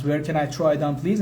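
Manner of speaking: slow, carefully spaced English; slow teaching demo. Shown as a demonstration. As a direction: spell it out slowly for learners. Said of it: "teacher repeats phrase for learners".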